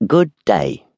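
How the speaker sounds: satisfied echo of a farewell; greatly satisfied. A narrator's reading. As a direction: savor the goodbye with satisfaction. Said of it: "echoed the beggar with great satisfaction".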